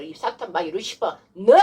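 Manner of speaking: demonstrated confrontation with the devil; stern exorcist's address; forceful rebuke. Shown as a demonstration. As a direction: call out the enemy sharply. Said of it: "이러면서 강력하게".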